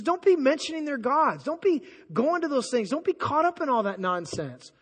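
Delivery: real heated exasperation; hyped up. Real, not acted. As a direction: demand an answer, all worked up. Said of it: "I'm getting a little hyped up".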